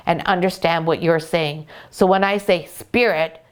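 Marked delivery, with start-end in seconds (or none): 2.7-3.4 firm, tense call of the name; serious. Shown as a demonstration. Owner showing how she alerts her dog, serious. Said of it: "my face is quite serious".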